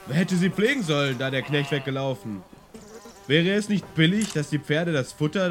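high, sneering official; mock the horse dealer with contempt; scornful castellan. (höhnischer Schlossvogt, verächtlich)

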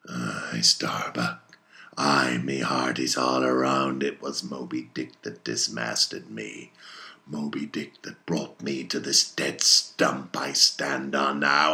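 low, heavy captain's voice; Ahab, brooding confession. Acted. Ahab admits to Starbuck that Moby Dick dismasted him, brooding.

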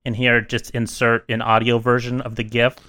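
a lightly solemn prepared statement read aloud; mock formal statement. Opening the podcast with a mock suspension statement, lightly solemn. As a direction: read it like a grave apology, barely playing it up.

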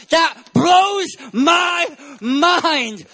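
slow, loud, near tears; overwhelmed. Real, not acted. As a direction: let it break out of you. Preacher overwhelmed at God's grace.

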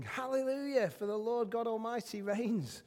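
half-shouted scripture acclamation; mild proclaimed shout. Acted. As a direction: call it out like a joyful multitude, without full force.

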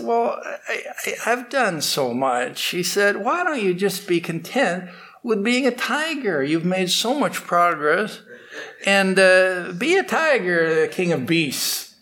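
lightly voiced old sage, weary and chiding; exasperated holy man.

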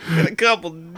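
creaky vocal fry. Pretend. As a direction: drop into a gravelly creak. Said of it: "That's a big vocal fry".

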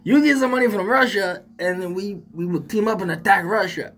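a hint of a Mexican accent, joking; mock Mexican accent. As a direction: keep the teasing Mexican accent going. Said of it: "talking like a Mexican accent".

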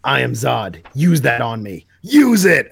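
building from plain to a shouted demand; rising to a yell on the last words; Zod demanding. Retold or imitated.

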